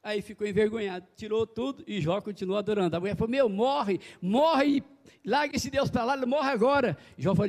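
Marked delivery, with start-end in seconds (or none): 3.3-7.0 a hammed-up taunting wife; Job's scornful wife. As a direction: pastor voicing Job's wife telling him to die. Job's wife urging him on.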